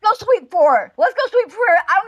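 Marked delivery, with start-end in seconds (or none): 0.0-0.9 hyped up. Acted. Hyping up going to the rival. 1.0-1.8 higher, louder hype rally cry; hyped up, louder. Acted. To the chat, rallying everyone to go over there, hyped up and loud. Hyping up going to the rival.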